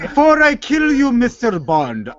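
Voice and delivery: slow, drawn-out evil villain; unhinged villain. Acted. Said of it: "get more evil".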